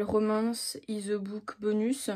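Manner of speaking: slow English title in a French accent. Real, not acted. Vlogger naming a drama to viewers, French-accented English. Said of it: "avec mon magnifique accent anglais".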